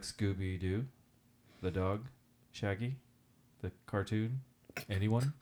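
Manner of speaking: fish for any recognition, pausing after each try; mounting disbelief. Retold or imitated. Teacher met with blank stares.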